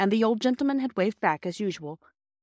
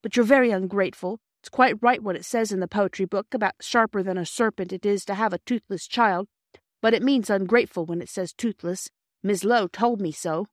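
indignant; 2 semitones higher, 4 dB louder than usual. Acted. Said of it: "said Phyllis indignantly".

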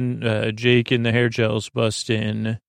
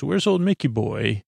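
playful imitation with a lilting lift; lightly put-on funny greeting. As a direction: jokingly mimic a chummy greeting. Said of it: "he says it in a funny way".

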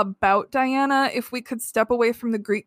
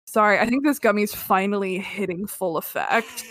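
speaking through a numb mouth; words slightly thick from numbness; numbed tongue. Real, not acted. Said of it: "I can't feel my tongue".

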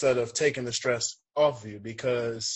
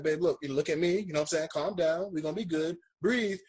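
soft, reassuring coaxing; retold soothing words to a scared partner in labor; calming his wife; 3 semitones higher, 3 dB quieter than usual. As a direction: talk her down gently, steady and soft.

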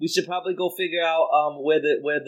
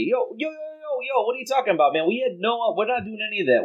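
higher-pitched, innocent protest; persuasive bluff; 5 semitones higher than usual. Acted. Vasilius deceiving the guards to talk them round, high-pitched bluff. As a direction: talk your way out, voice raised in pitch. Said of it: "talk them into it, deceive them".

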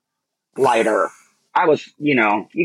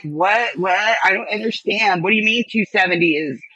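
baffled other people; 4 semitones higher than usual. Retold or imitated. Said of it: "Other people are like".

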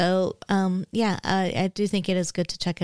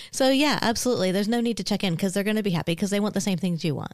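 words pushed out through clenched teeth; through gritted teeth. Real, not acted. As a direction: talk with the jaw clamped shut. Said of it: "your teeth are clamped together".

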